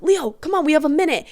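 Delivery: high, eager coaxing call; excited urging. Retold or imitated. To boyfriend Leo at midnight, eager high coaxing. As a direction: hurry him along, bubbly and high.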